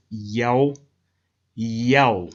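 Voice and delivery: "Yao" said as one syllable, YOW; Yao pronounced YOW. Shown as a demonstration. Narrator quotes the historian's phonetics, Yao pronounced YOW. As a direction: sound out "Yao" to rhyme with "how". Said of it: "He proves the phonetics further".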